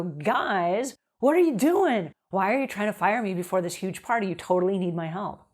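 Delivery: playful familiar challenge. Shown as a demonstration. Cleaner playfully confronting a long-time family, friendly push. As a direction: talk to them like old friends. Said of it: "Go in with your comfort zone and go".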